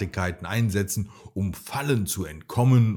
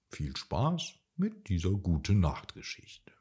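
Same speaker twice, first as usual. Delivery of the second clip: soft bedtime whisper; 6 dB quieter than usual. Real, not acted. Bedtime story sign-off.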